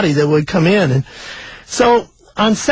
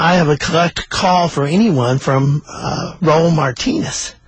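halting first call announcement, pitched near usual; operator; slower than usual. Retold or imitated. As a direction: state the collect call evenly. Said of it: "the operator said".

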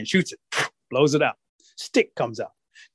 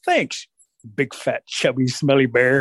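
cheeky taunt; slower than usual. Acted. Rabbit insults Bear mockingly.

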